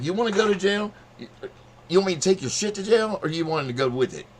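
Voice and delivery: high, loud threatening yell; retold cop threatening jail in a loud yell. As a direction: shout it at him like a power-tripping cop.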